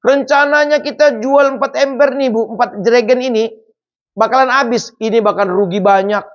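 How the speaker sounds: husband raging. Retold or imitated. Husband rants at wife about lost sales, heated. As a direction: vent the ruined plan at her. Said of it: "suaminya ngamuk".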